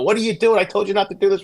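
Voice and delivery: mock yell at a husband; retold yelling. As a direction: imitate a woman telling someone off. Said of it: "I mean, yelling at him".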